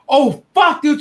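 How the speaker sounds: high loud stunned swear; shocked outburst. Real, not acted. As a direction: blurt it, caught off guard. Reacting to twist in donation story.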